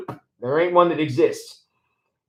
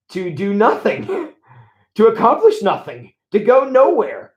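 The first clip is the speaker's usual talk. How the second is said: chuckling through the words, rising higher; laughing; 3 semitones higher than usual. Real, not acted. Pastor amused by lazy prayer: real chuckle, higher and slow.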